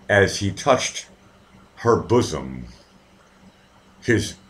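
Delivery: slow, halting delivery of steamy prose; lightly put-on romance narrator, lingering over phrases; mock romance-novel reading. Tutor reading a romance novel to his student, mock romantic. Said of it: "romance, Shakespearean bullshit crap stuff".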